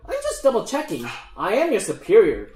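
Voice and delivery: lightly voiced gnome, starting high; mildly officious gnome voice; superior gnome leader. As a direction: pull rank as a gnome boss. Gnome leader pulls rank.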